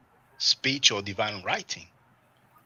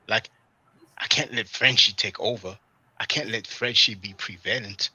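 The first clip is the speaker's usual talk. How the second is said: mock battle mode. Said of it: "he's on some, you know, battle mode".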